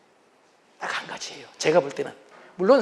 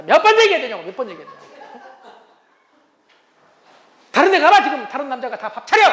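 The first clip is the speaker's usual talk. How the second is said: scary nagging wife; 2 semitones higher, 6 dB louder than usual. Retold or imitated. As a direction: berate him like a fed-up wife. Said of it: "이렇게 무섭게". (밥 안 먹는 남편을 다그치는 무서운 아내)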